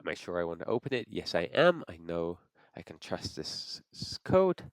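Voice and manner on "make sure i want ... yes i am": normal talking voice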